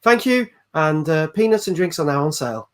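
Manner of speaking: lightly voiced mock cabin announcement; a hint of airline pilot on the intercom. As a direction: address the passengers like a captain announcing disaster matter-of-factly. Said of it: "Let's hear your best pilot voice".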